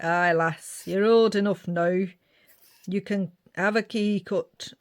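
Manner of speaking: lightly put-on northern parent; a hint of a northern English accent. Parents telling their daughter she can have a key, light northern accent. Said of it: "I don't know why I go northern".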